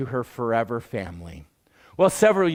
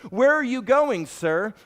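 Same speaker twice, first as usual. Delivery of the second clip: cab driver's question; 7 semitones higher than usual. Retold or imitated. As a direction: throw it up high like a busy driver. Next cab driver asks.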